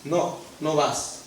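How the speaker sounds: a grave divine refusal; God firmly telling Balaam no; God refusing. Acted. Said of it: "Y le dice".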